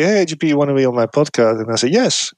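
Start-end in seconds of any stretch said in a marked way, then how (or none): 0.0-1.6 mock invitation. Shown as a demonstration. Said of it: "But if you say". 1.9-2.3 bright, much higher yes; an instant, eager yes; quick yes. Shown as a demonstration. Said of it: "that sounds perfectly normal".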